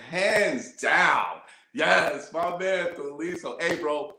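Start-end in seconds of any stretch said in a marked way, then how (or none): 0.1-1.4 a shout of approval; hyped agreement. Real, not acted. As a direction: call it out like a hype man. Host cheering again, shout heard.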